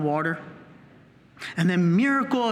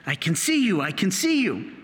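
movie-style awe. Retold or imitated. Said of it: "Like in Jesus of Nazareth, the movie".

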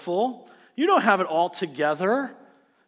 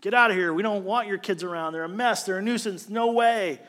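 rebuking disciples; 3 semitones higher than usual. Retold or imitated. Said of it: "They rebuked these parents".

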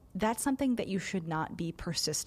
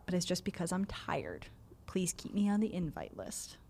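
soft whispered aside; 6 dB quieter than usual. Pretend. Quoting a polite decline.

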